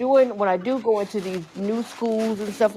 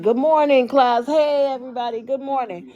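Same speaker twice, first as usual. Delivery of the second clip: cheerful teacher greeting; 4 semitones higher than usual. Retold or imitated. Teacher greeting her class, sing-song good morning.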